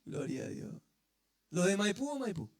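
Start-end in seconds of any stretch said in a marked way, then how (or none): 0.0-0.8 breathy whispered gloria; whispered praise. Real, not acted. Preacher murmurs praise to God after his joke, whispered. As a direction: breathe it out under your voice.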